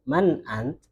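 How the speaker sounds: "Man ant" ending on a bare t; percakapan, disukun. Shown as a demonstration. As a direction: ask "Man ant" without the last vowel. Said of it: "Kadang itu ngomongnya". ("Man ant" dengan huruf akhir disukun)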